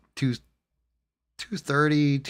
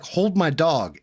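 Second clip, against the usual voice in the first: louder, higher order to his wife; sharp command; 7 semitones higher, 5 dB louder, slower than usual. Retold or imitated. Telling his wife to take the dog, a quick louder order. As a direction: bark it at her before the fight. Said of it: "I was like".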